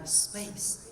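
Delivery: soft, airy, whispery exhale on the word; breathy release. Shown as a demonstration. Coach telling the body space, breathy exhale. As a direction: let the word out on a long breath.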